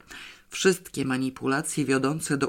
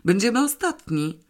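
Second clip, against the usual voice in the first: higher-pitched, mildly cross complaint; angry reminder; 7 semitones higher than usual. A narrator's reading. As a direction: complain with a touch of anger. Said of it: "przypomniał gniewnie". (z lekkim gniewem, wyżej)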